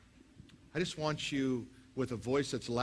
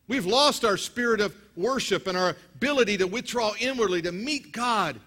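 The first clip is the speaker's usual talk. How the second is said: higher and louder preaching; full-force preaching; 9 semitones higher, 11 dB louder than usual. Real, not acted. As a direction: build the crowd up, high and loud.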